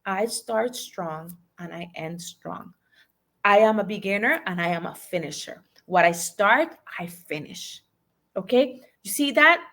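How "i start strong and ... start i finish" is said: slow and softer, inward; slow, quiet affirmation. Shown as a demonstration. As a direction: repeat it softly to yourself. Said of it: "no, no, no".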